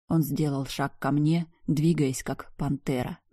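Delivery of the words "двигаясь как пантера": ordinary delivery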